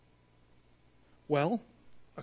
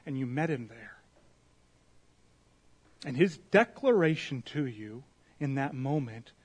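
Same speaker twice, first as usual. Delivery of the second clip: prayer. Real, not acted. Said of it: "Let me pray".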